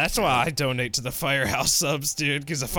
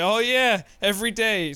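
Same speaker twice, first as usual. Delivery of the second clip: higher, eager mock agreement; nervous store manager; 4 semitones higher than usual. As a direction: imitate the manager anxiously pleasing the marshal. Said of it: "store manager shaking in fear".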